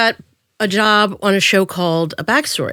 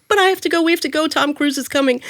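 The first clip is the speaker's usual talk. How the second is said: flustered protest; 8 semitones higher, faster than usual. Retold or imitated. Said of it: "And I'm like".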